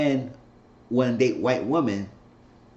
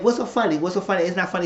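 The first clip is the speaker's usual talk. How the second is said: higher-pitched mock indignation; indignant mimicry; 6 semitones higher, faster than usual. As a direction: retell an affronted "what's so funny". Acting out an annoyed question.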